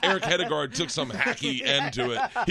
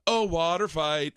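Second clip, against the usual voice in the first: friend's catchphrase; slower than usual. Retold or imitated. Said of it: "it turned into".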